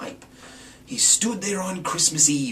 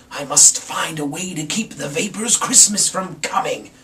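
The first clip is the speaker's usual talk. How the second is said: growling Grinch; 5 semitones higher, 4 dB louder than usual. Acted. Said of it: "he growled".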